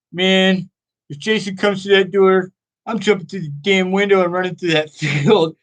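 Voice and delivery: imitating a stoner friend's escape plan; stoner buddy. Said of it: "one of those stoner guys that just talks like that".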